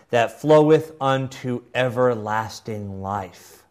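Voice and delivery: lightly oratorical, stretched key words; formal quotation reading. Acted. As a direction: declaim it in measured phrases. Reads Cranmer's words aloud.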